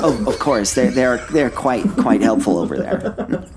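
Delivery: lightly voiced fussy scholar; a hint of a nervous academic. Player stays in character.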